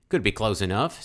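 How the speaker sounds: "Could" rising in a put-on Southern accent; hammed-up Southern accent, "Could" lifted. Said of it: "this southern accent".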